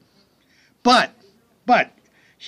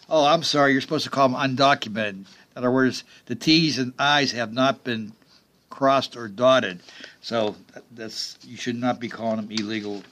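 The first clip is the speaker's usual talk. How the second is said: sarcastic; 2 semitones lower than usual. Real, not acted. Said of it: "I'm being sarcastic".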